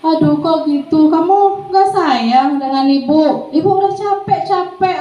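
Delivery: lightly acted plaintive, drawn-out guilt trip; weak guilt-tripper. Shown as a demonstration. Teacher makes a student feel guilty, mildly weak plaintive voice. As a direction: plead slowly, rising into a high, weary complaint. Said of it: "biasanya suaranya lemah ya".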